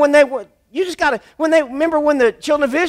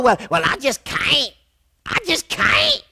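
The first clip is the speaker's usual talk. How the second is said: whiny defeatist; 4 dB quieter than usual. Retold or imitated. Mimics defeated believer.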